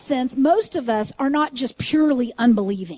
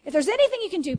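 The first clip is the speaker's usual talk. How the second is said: pleading father; 4 semitones higher than usual. Retold or imitated. Father begs Jesus for his son.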